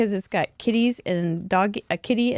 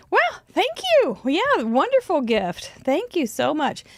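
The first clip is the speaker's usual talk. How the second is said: out of breath; 7 semitones higher than usual. Real, not acted. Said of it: "out of breath".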